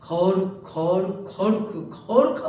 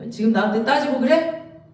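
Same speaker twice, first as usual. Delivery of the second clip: raised, affronted question; a touch of indignation at being argued with; God rebuking Job; 3 semitones higher than usual. Acted. Preacher as God to arguing Job, mildly indignant. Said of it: "이 하나님이".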